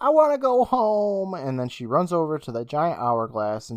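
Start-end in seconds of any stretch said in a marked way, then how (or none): 0.0-1.3 mock very high, shrill, drawn-out yell. Retelling an episode's plot, quoting the girl: imitating a yell. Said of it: "And she yells".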